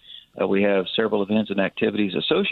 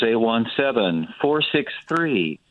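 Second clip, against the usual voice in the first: slow; slower than usual. Real, not acted. Slowly reads out the phone number.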